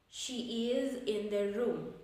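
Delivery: statement with "room" sinking at the end; falling intonation. Shown as a demonstration. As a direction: bring the pitch down on "room". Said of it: "Falling intonation".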